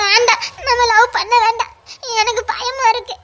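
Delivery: put-on frightened girl begging to end the love, near tears; tearful pleading. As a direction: voice catching on the tears. Frightened girlfriend breaks off love.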